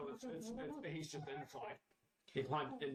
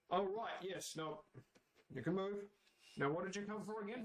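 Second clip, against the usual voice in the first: distracted king; 6 semitones higher than usual.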